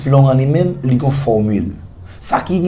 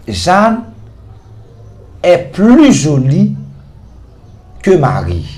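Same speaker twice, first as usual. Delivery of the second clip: slow, raised French example; slow model sentence; 5 semitones higher, 3 dB louder, slower than usual. Shown as a demonstration. Teacher presenting the French example to students, slowly. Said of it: "m ap di".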